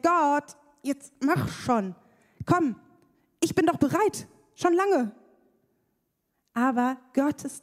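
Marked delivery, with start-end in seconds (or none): 0.0-5.1 impatient prayer. Retold or imitated. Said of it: "Dass ich denk".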